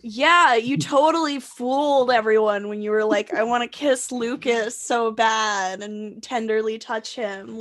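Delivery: dry, teasing sarcasm; sarcastic. Real, not acted. Teasing him about fooling everyone, drily sarcastic. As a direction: feign being totally convinced. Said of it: "I get the sarcasm".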